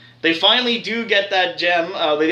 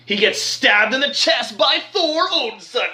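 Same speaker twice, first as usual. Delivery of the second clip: higher-pitched, thrilled announcement; excited recap; 4 semitones higher than usual. Real, not acted. Fan telling how Thor stabs Thanos, excited. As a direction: build up to the hero's big hit.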